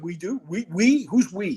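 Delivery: mock disbelief at being volunteered; incredulous retort. Balks at being sent in.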